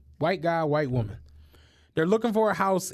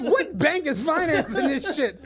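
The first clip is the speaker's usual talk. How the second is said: laughing disbelief; 5 semitones higher than usual. Retold or imitated. Incredulous retold reaction.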